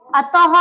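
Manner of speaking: "अतः" ending on a clear ह; h sound at end. Shown as a demonstration. Teacher gives another visarga word, distinct ह closing "अतः". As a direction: make the ः of "अतः" heard as ह. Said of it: "ह आ रहा".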